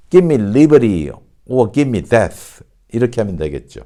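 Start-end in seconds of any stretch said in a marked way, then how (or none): 0.1-2.6 slow, deliberate American model line; measured American reading, each phrase set apart; American pronunciation. Shown as a demonstration. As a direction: say it the American way, "gimme" and flapped "liberty". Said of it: "미국식 발음으로 한다면".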